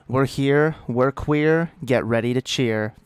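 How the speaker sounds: loud, punchy rhyming chant; rallying cheer. Pretend. Streamer rallies the chat to cheer, loud chant.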